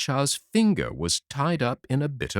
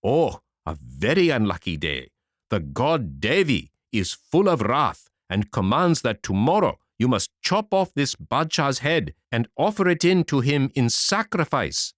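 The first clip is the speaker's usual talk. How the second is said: solemn priest; 3 semitones higher than usual. Acted. Chief Brahman announces Devi's command to the Rajah, grave and solemn. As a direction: pronounce the god's doom gravely.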